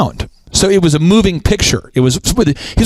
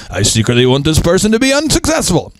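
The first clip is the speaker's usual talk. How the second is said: mock secret scheming. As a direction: pitch creeping up through the line. Imagining a saboteur's secret thought.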